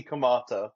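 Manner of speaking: Kamado said "ku-MAH-tuh"; looked-up pronunciation. Shown as a demonstration. Reporting how it looks like it's pronounced, Kamado as "ku-MAH-tuh". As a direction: say Kamado as "ku-MAH-tuh", broad middle vowel. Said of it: "that's how it's pronounced".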